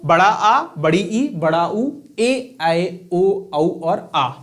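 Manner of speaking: slow, drawn-out आ, ई, ऊ, ए, ऐ, ओ, औ; long vowels. Shown as a demonstration. Teacher listing long vowels, आ to औ held longer. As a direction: stretch each vowel from आ to औ. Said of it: "लघु स्वर से ज्यादा".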